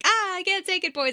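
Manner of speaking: put-on a theatrical lament to her boys; despairing mother. Mother on the phone to her twins, mock despair. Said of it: "And she's like".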